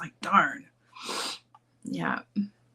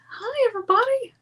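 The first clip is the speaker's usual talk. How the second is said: high sing-song greeting. Acted.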